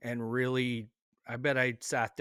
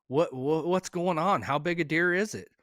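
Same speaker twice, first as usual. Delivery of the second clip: imitating an eager mom, higher and louder; excited questioning; 5 semitones higher, 4 dB louder than usual. Mom phoning her son for news of his deer, excited. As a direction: stumble into raised, urgent questions.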